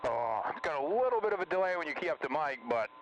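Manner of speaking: tinny payphone sound over the radio; like talking through a payphone; payphone call. Real, not acted. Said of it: "You sound like you're on a payphone".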